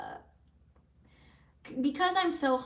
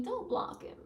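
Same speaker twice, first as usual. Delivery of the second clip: soft mock whisper; whispered quote; 9 semitones higher, 5 dB quieter than usual. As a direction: whisper the viewer's advice. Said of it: "someone's telling me".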